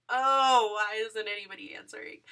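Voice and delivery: loud oh, then a fast complaint; desperate to share the news; frantic exclamation. Retold or imitated. Fan phoning friends and mom, frantically impatient. No one picks up phone.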